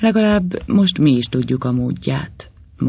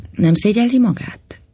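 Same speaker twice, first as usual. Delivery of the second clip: higher, scornful question; contemptuous; 9 semitones higher, 3 dB louder than usual. A narrator's reading. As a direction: sneer it at him with contempt. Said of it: "kérdezte megvetőn". (megvetően, felháborodva)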